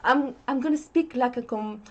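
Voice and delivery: lightly exaggerated French-accented English; faked French accent. Guest playing up their accent for friends, faked French accent. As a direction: put on a heavier French accent. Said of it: "you don't need to fake it".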